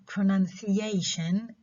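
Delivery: "pronunciation" with main stress on the a of -ation. Shown as a demonstration. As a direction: stress "pronunciation" on its fourth syllable, a. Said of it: "The stress is on this syllable".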